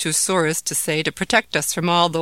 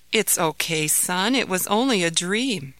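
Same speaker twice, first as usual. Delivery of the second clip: soothing. Acted. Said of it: "said his father soothingly".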